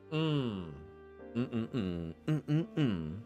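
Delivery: normal talking voice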